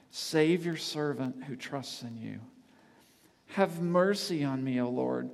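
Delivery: fervent psalm reading. Acted. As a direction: pray the psalm aloud, fading at the end. Reads psalm as a fervent prayer.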